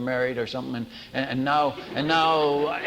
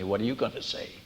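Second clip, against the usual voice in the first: retold whisper; 5 semitones lower, 6 dB quieter than usual. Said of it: "she whispers at me".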